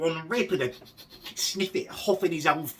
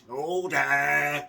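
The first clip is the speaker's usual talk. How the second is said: mock Speaker's call; 4 dB louder than usual. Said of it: "smug little toad".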